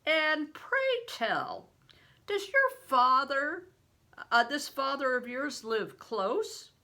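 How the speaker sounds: a giant of a man, booming and slow; big stranger. A narrator's reading. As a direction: play the huge man, loud and hearty.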